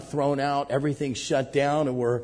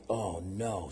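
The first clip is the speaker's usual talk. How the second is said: dismayed; 7 semitones lower, 10 dB quieter than usual. Retold or imitated. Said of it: "we're like".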